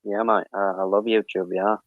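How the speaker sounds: put-on Aussie voice; casual mock-Australian accent. Stranger joking with streamers about YouTube, Australian accent. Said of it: "I mean, I'm from Australia".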